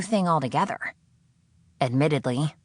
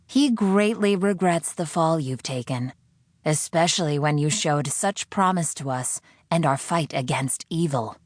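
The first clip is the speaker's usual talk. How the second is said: solemn captor; 2 semitones higher than usual. Acted. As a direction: mourn her fall like a preacher. Voice laments.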